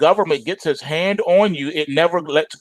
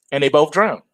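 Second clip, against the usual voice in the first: ordinary delivery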